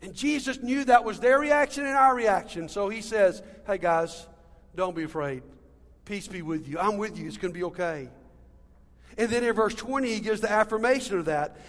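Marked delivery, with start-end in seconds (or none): 3.7-8.1 gentle reassurance. Acted. Jesus comforting the scared disciples.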